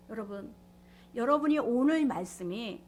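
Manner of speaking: ordinary talk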